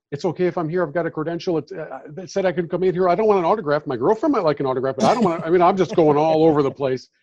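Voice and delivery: nervous babble. Retold or imitated. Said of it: "nervous auctioneer-like response".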